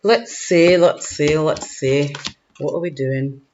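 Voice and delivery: musing aloud in a put-on Scottish accent. Card reader musing to herself, light Scottish accent. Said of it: "I don't know why I'm Scottish".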